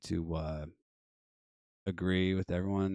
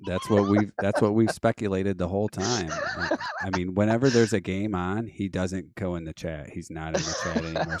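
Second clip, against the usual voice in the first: laughing; 4 dB louder than usual. Real, not acted. Laughing along with caller.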